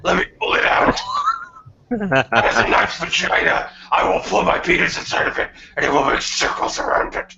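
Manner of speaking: strained throat voice for the roleplay; gritty Sonic-style voice. Acted. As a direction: keep the gritted-teeth rasp going. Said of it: "all the characters are gonna have to talk like that".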